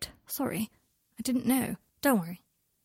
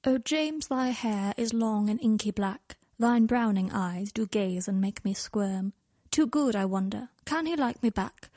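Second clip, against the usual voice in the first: mock love poem. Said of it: "writing this lecturer a love poem and rhyme royal".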